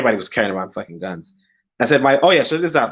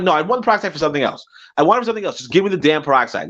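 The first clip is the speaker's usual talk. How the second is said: exasperated, raised-pitch retort; pissed off; 5 semitones higher, much faster than usual. Retold or imitated. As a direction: re-enact fed-up insistence. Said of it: "I was just fucking pissed".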